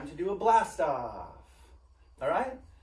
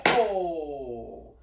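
long drawn whole. Shown as a demonstration. Teacher to children, whole drawn out slowly. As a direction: hold whole out long and even. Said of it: "You say whole".

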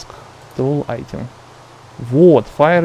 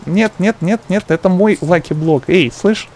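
panicked yelling; 4 semitones higher, 4 dB louder than usual. Real, not acted. Panicked over his lucky block.

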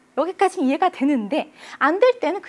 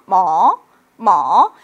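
drawn-out "뭐" climbing; curious rising tone; 4 semitones lower, 8 dB louder, much slower than usual. Shown as a demonstration. Teacher repeating the second tone as a curious rise. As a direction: glide "뭐" up from low, asking. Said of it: "이성은 궁금해서".

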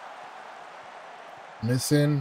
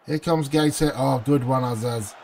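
ordinary delivery

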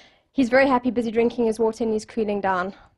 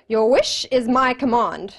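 genie voice. Retold or imitated. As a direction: stretch it out as a genie granting a wish. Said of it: "the genie shakes his head".

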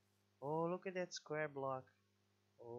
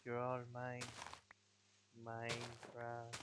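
megalomaniac rant; 4 semitones lower, 4 dB quieter than usual. Pretend. Mock world domination speech.

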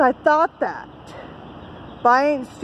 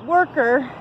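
angry; 6 semitones higher than usual. Real, not acted. Angry outburst at ex-husband.

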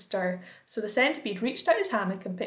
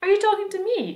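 much higher and louder, startled; surprised question; 12 semitones higher, 7 dB louder than usual. A narrator's reading. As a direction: ask it amazed. James surprised, asking centipede.

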